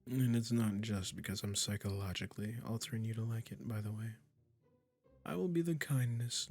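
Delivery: tender witch. Acted. Witch comforting the cat she transformed, tender and doting. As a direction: coo to the pet you just changed.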